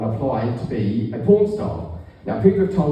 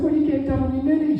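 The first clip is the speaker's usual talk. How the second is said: incredulous; 11 semitones higher, faster than usual. Retold or imitated. Quoted disbelieving question.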